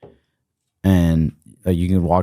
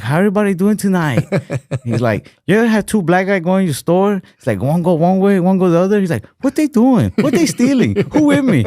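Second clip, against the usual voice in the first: much higher, louder hammed-up Asian accent; imitating Asian comedian; 11 semitones higher, 3 dB louder than usual. Retelling a Family Guy cutaway, a hammed-up Asian comic accent. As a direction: ham up the stand-up's Asian accent as he works the crowd. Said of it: "an Asian dude going up at the Apollo".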